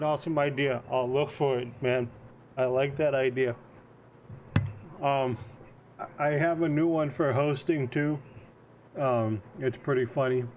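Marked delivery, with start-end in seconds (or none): 6.2-10.4 talking with a mouthful of popcorn; munching popcorn. Real, not acted. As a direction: chew popcorn while you talk. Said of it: "I'm eating popcorn".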